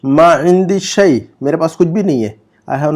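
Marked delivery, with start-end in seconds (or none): 0.0-1.2 slow, syllable by syllable Arabic; slow model reading. Shown as a demonstration. Teacher reads the Arabic example slowly for students. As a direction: read it out slowly for students to copy. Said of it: "number سات کا جملہ پڑھیے".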